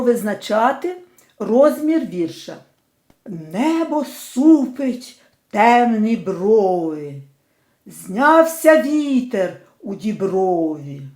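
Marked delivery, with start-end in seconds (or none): 3.3-11.0 slow, measured verse recitation; poem reading. Shown as a demonstration. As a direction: read the lines as a poem, unhurried. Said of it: "Поділимо на склади перший рядок цього вірша". (повільне декламування вірша)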